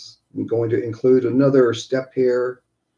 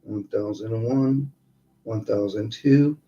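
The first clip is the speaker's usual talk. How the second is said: guided meditation. Acted. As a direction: count them calmly through each breath. Leads breathing exercise.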